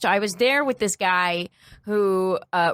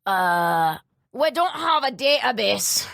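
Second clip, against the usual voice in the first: lightly voiced Scottish shopkeeper; put-on Scottish accent, halting; bad Scottish accent; 3 semitones higher, slower than usual. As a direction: imitate an unhelpful Scottish clerk. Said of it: "That was a bad accent".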